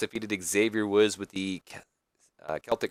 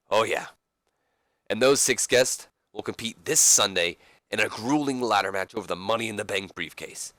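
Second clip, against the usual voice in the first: put-on the talk-show host welcoming the crowd, lightly accented; Roddy Piper's voice. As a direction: play a brash talk-show host in the ring. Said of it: "that's a horrible accent".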